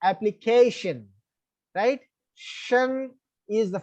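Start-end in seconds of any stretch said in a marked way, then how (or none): 0.0-1.1 Application with the CA syllable stressed; Application, weight on "ca", falling on "tion". Shown as a demonstration. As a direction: punch the second-last syllable of Application. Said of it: "that should be stressed".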